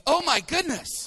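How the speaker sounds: startled exclamation; shocked gasp. Retold or imitated. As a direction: play startled flight attendant. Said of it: "And she goes".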